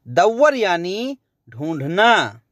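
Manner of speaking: ordinary delivery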